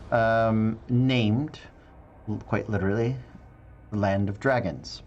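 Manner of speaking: measured scene-setting with dramatic pauses; game master narration. Acted. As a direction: set the scene, pausing between phrases. Game master opens the session's story.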